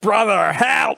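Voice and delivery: loud desperate shout; cry for help. Acted. Youngest boar cries out as the house is blown apart. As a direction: scream for your brother.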